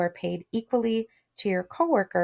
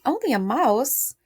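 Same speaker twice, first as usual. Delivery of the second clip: offended; 3 semitones higher than usual. Shown as a demonstration. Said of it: "offended, right?".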